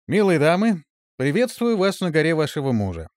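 high, loud courtly greeting; bow and charm the ladies; gallant gentleman. Acted. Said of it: "галантно произнёс".

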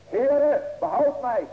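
high, loud desperate cry for help. Acted. Preacher voicing sinking Peter crying to the Lord, loud desperate cry. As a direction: call out to the Lord like a sinking man. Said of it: "riep hij zeggende".

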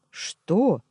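confused what. A narrator's reading. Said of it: "растерялся я".

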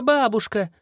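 high falling yell. Acted. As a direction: holler it at full force. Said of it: "завопила во всю мощь".

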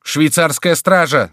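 high, loud, stretched-out warning; alarmed shout. A narrator's reading. Foulon spotting the Swiss guard, shouting. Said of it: "закричал Фулон".

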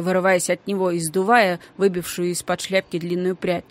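ordinary delivery

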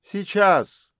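high shout back. A narrator's reading. Mother shouts back to her friends, high call. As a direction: call back across the park. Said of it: "крикнула она им".

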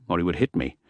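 ordinary delivery, nothing marked

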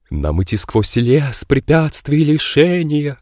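slow, solemn doom-laden voice; grave voice. Acted. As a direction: intone it like a prophecy of doom. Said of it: "за могильным голосом начал он".

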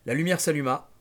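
measured, dramatic novel reading; deliberate audiobook-style narration; story narration. A narrator's reading. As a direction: read the nightmare out like a storyteller. Reads novel aloud.

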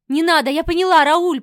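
high, loud, panicked pleading; wife pleading with her violent husband; frightened babble. Acted. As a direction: beg him to stop, terrified. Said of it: "пролепетала я".

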